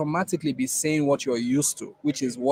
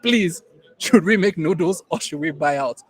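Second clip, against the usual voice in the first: quoting his wife, a bit higher and louder, impatient; 3 semitones higher, 4 dB louder than usual. Retold or imitated. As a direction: cut him off like an exasperated wife. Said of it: "and she said".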